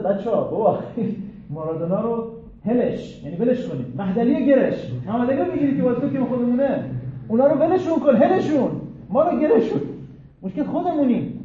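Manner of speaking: loud high shout; coach yelling at players. Retold or imitated. Coach shouting to his own players, loud and high. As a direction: yell it from the touchline, frantic. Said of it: "یه دفعه داد زد".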